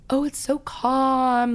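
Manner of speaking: slow, exaggerated calm parody; mock soothing voice. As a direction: drag it out like a lullaby. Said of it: "comments that my voice is soothing".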